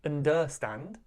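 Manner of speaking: "understand" with the beat wrongly on DER; wrong stress on middle syllable. Shown as a demonstration. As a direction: say "understand" as un-DER-stand, rising at the end. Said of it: "We don't say understand".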